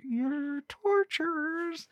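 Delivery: very high, slow, drawn-out accusation; mock squeal of outrage. Reviewer answering the movie's ending, high slow mock outrage. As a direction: squeak it out in disbelief. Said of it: "And I'm like".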